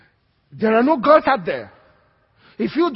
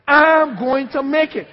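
slow, louder declaration for the church to repeat; declaring it; 4 semitones higher, 6 dB louder, slower than usual. Shown as a demonstration. Preacher leads congregation in repeating, slow louder proclamation. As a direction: proclaim it slowly, leading the room. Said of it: "Say that with me".

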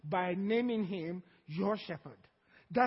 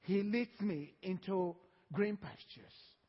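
soft slow reading; 5 semitones lower, 6 dB quieter than usual. Acted. Soft, slow Psalm quote.

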